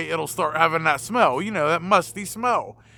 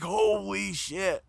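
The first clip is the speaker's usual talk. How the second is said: stunned curse; 7 dB quieter, much slower than usual. Retold or imitated. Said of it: "I was like".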